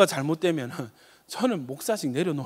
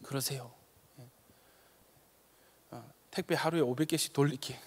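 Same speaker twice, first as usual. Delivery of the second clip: softer, easy reassurance; a hint of the wife agreeing calmly; soft playful wife's reply; lightly voiced wife; 5 semitones lower, 9 dB quieter than usual. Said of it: "우리 사모가".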